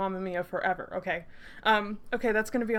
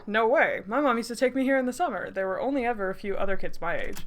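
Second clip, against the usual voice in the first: a hint of a friendly guy's voice, brisker; lightly acted friendly young man; lightly voiced young man. Shown as a demonstration. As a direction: give Taylor a light character voice. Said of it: "oh, I need to give him a voice".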